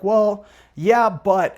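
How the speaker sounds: agree, then balk; reluctant prospect. Acted. Prospect answering the second ask, reluctant.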